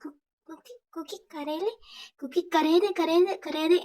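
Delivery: sadly. Acted. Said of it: "തേക്ക് അങ്ങനെ സങ്കടമായിട്ട്".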